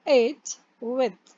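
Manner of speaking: "इट, with" drawn out slowly; French huit. Shown as a demonstration. Teacher slowly modelling huit. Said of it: "then with".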